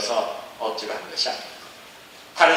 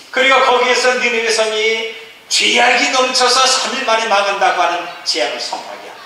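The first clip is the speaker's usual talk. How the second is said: raised, emphatic sermon voice; forceful preaching; 9 semitones higher, 6 dB louder than usual. Acted. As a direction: proclaim it to the congregation, then settle. (힘차게 선포하는 설교)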